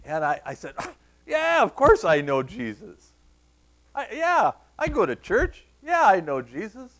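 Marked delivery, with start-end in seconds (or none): 1.2-6.9 put-on high, insistent young-kid protest; defensive. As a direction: answer loudly, as if it's obvious. Retold defensive childhood answer to cousin.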